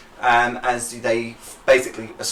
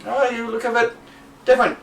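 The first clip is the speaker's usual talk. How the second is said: nosy local; 10 semitones higher than usual. Acted. GM voices local eyeing halfling.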